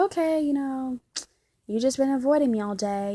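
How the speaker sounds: imitating her loud, accusing complaint; mock upset girlfriend. Girlfriend accusing boyfriend of avoiding her, mock upset. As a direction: put on a wounded girlfriend's reproach. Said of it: "she gets upset".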